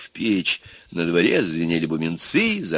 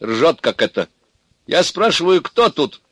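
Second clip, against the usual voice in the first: high-pitched, irritated demand; cross; 8 semitones higher, 4 dB louder than usual. A narrator's reading. Daughter demands to know who's here, cross. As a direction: insist crossly on an answer. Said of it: "рассердилась дочка".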